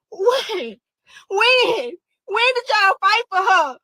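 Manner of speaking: demanding answers; angry. Real, not acted. Grieving mother demanding answers.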